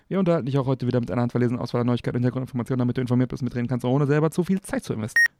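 very fast podcast intro patter; rapid-fire announcer read. Acted. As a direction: rattle off the intro at top speed.

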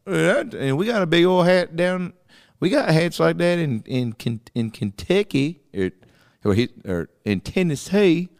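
high, hammed-up Southern country accent; a country singer. Country-singer judge relating to the hat, mock Southern accent. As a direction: stumble along in a mock Southern twang. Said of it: "a country singer, and he's like".

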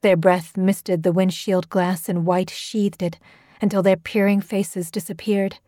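ordinary delivery

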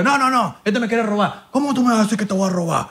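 put-on indignant Dominican accent. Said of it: "Me hice pasar por dominicano".

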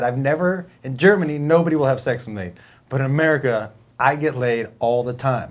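a hint of a German accent, unhurried; German guy's voice. Retelling the Asian German guy's boast, light German accent. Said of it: "he said".

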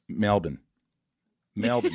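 Melbourne in a light Aussie accent; Australian accent. Shown as a demonstration. Host showing listeners an Australian accent, demonstrative Aussie pronunciation. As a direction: say it clipped the Australian way, "MEL-bn". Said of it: "learn an Australian accent".

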